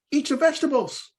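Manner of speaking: high, firm dad command; mock strict father; dad's order. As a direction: order her to eat up. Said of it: "I tell my kid".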